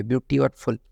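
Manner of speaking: ब्यूटी and फुल as two separate parts; split into parts. Shown as a demonstration. Teacher breaking a word in two, ब्यूटी and फुल said separately. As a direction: set ब्यूटी apart from फुल. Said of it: "दो pair यहाँ पर होंगे ही होंगे".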